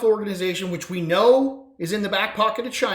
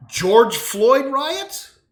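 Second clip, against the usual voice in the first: mock-innocent reveal; 5 semitones higher, 7 dB louder, much slower than usual. Real, not acted.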